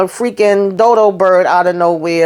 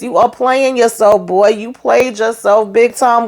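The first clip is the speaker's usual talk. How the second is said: lightly voiced catchphrase impression; a slightly raised, emphatic mock scolding; D J Khalil; 4 semitones higher than usual. Reviewer scolding a show character, lightly imitating a catchphrase. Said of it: "in my D J Khalil voice".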